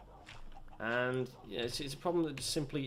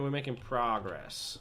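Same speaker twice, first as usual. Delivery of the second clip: put-on slow, drawn-out American accent; slower than usual. British gamer imitating American accent, slow and drawn out. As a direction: stretch progress the American way. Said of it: "if you're American".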